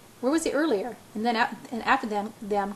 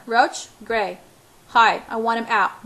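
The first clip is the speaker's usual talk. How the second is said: curt angry order; 6 dB louder, slower than usual. Acted.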